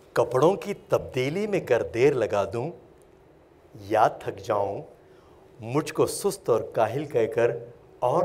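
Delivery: measured, pleading recitation with pauses between phrases; poem recitation. Acted. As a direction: recite as an ageing parent appealing to their children, rising on key lines. Recites a parent's poem to children. (نظم خوانی، ٹھہر ٹھہر کر التجائیہ انداز میں)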